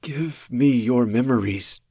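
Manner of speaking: slow, loud, eerie creature demand; hungry otherworldly creature; the monster demanding Marissa's memories. A narrator's reading. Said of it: "the monster said".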